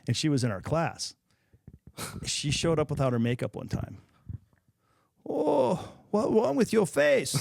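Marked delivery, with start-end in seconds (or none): 5.3-7.3 put-on high, slow Asian-accented coach, blunt; the old master with a thick Asian accent, worried. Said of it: "this Asian accent you're doing".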